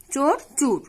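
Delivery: চোর plain, then চুর with u; o becomes u. Shown as a demonstration. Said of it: "ওকার অনেক সময় উকার হিসেবে উচ্চারিত হয়". (চোর থেকে চুর, উকার উচ্চারণ)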